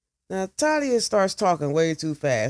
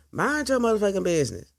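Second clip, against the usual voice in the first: fast sharp snap, a bit higher; snapping; 4 semitones higher, faster than usual. Acted. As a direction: bite it out quickly. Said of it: "snaps at Mo".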